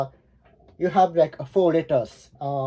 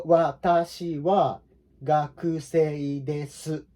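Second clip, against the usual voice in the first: slow careful enunciation; slower than usual. Shown as a demonstration. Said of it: "you need to enunciate each letter".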